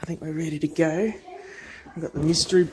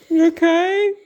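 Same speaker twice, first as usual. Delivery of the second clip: excited; 11 semitones higher, 7 dB louder than usual. Real, not acted. Child crying happy tears.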